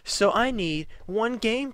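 high, whiny mimic of a pleading mother; mocking sob-story whine; pleading Karen. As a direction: whine for sympathy. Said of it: "the person was like".

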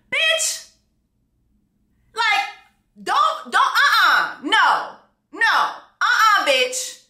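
high, laughing disbelief; incredulous laughing outburst. Real, not acted. Outraged reaction to the quote.

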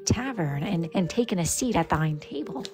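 story narration over tavern music, slowed; lightly dramatic fantasy narration; game master narration. Acted. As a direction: set the dark scene like a storyteller.

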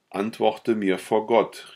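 laut, höher und langsam, außer sich; er fleht und fordert zugleich; außer sich gerufen. A narrator's reading. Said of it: "rief er außer sich". (lauter, langsamer Ausruf)

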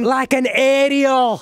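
high slow giggling words; laughing slow. Real, not acted. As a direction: laugh through it slowly. Laughing slow font name.

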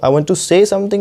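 rushed say as plain se; wrong way. Shown as a demonstration. Teacher shows the wrong say as se. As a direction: say clipped to a short se. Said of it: "नहीं, आपको कैसे बोलना है".

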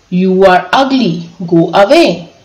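usual speaking voice

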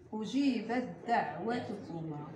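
أجيبت دعوتكما recited slowly, the تاء in أجيبت merged into the دال of دعوتكما; slow recitation demo. Shown as a demonstration. Teacher models أجيبت دعوتكما for students, slow careful recitation. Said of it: "التاء مع الدال".

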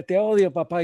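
short, high mocking outburst; angry mimicry. Father imitating his son's words back at him, angry mimicry. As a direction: throw the child's angry cry straight back, high and loud. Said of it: "y lo imito, ¿verdad? Con la misma energía".

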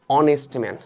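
"অনেস্ট ম্যান" opening on the o vowel; "অনেস্ট" with no h sound, then "ম্যান"; silent H. Shown as a demonstration. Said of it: "এইচ বাদ দিয়ে উচ্চারণ করতেছি".

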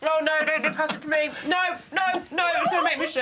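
laughing protest. Real, not acted. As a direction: squeal no through laughter. Refusing communal dessert, laughing.

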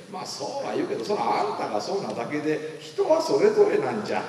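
mild mock pushback; dismissive brush-off. Younger self deflecting positive advice, mildly dismissive. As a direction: wave the advice away as not for you. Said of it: "みたいな感じで弾きまくってたん".

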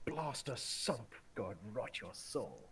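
very slow, lightly voiced quote; retold character voice. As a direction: draw out each word like a solemn curse. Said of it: "Yes, he was".

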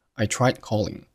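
tried with its d swallowed before calling; I tried calling, tongue set for d but silent; unreleased d. Shown as a demonstration. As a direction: hold back the d of tried, then calling. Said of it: "tried结尾的的失去爆破".

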